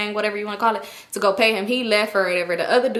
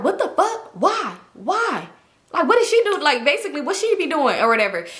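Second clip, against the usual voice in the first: high, indignant mock outburst; imitating her disbelief, pitched way up; outraged; 5 semitones higher than usual. Girl outraged at the pimp.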